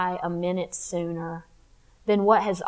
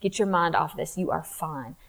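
self-reassurance; 3 semitones lower, 4 dB quieter than usual. Retold or imitated. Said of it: "I used to tell myself".

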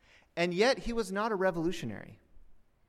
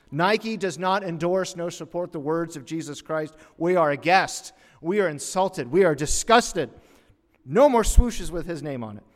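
loud, emphatic mock outrage; indignant corporate spokesman; 2 semitones higher, 8 dB louder than usual. Nike spokesman disowning the words of Jesus, loud mock indignation. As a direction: declare each offence with pompous indignation. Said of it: "The public relations".

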